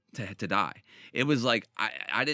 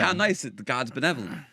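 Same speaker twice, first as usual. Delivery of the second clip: higher, sneering "how nice"; mock the naive believers with fake sweetness; sarcastic mock; 3 semitones higher, 3 dB louder than usual. Mocking people who think being good saves you, sarcastic.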